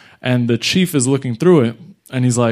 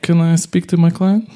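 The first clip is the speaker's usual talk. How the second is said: interrupting lawyer; 5 semitones higher, 4 dB louder than usual. Retold or imitated. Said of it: "the lawyer interrupts and he goes".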